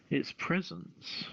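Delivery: usual speaking voice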